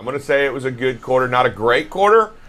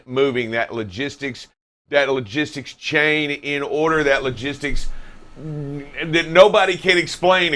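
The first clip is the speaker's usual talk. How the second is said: professional newscaster voice. Acted. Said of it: "That's the professional voice".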